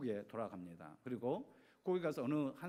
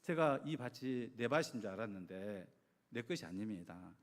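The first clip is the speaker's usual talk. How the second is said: lightly acted prayer, mostly lowered voice; retold surrendering prayer; 4 semitones lower than usual. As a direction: hand it over to God, voice dropping then lifting at the end. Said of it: "하나님께 맡기는 기도를 했습니다". (맡기는 기도를 재연하듯 낮춘 목소리로)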